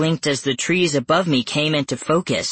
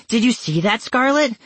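high, excited shout; screaming; 9 semitones higher than usual. Acted. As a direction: shout it out in alarm. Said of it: "I screamed".

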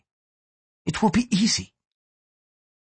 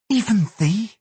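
bitterly; 10 semitones higher, slower than usual. A narrator's reading. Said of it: "she replied bitterly".

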